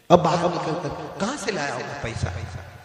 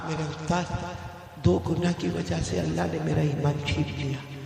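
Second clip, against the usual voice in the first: hushed grave voice; 7 dB quieter than usual. Acted. Student answers from the grave.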